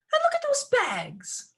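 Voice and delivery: high, slow, indignant cry; voice rising. Acted. Daughter complains about the bags, voice rising high. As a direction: complain shrilly at the abandoned bags. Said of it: "Lucy's voice was rising".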